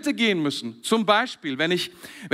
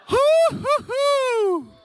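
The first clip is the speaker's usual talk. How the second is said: very high, slowly drawn-out whoop; joyful whoop; 4 dB louder, much slower than usual. Acted. Preacher cheering a changed man, with a high drawn-out whoop. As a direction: let out a long, high cheer of delight.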